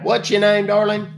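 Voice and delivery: lightly voiced elderly caller; a hint of a confused old man.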